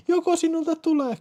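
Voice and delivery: very high falsetto cry; urgent question. Acted. Urgent question during phone sex. (kiihtynyt kysymys korkealla falsetilla)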